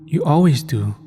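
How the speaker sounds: warm smile. A narrator's reading. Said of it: "she cracked a warm smile".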